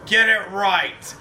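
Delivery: mock indignant. Joking correction of friend.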